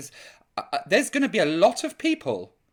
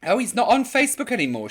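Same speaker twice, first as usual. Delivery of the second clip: quoting a viewer; 3 semitones higher, 4 dB louder, faster than usual. Retold or imitated. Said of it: "she says".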